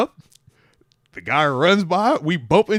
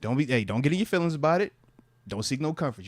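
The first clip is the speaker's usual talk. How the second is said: a quiet, matter-of-fact coach; calm coach; 5 dB quieter, faster than usual. Retold or imitated. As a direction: hand out the fine without arguing. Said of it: "he's like".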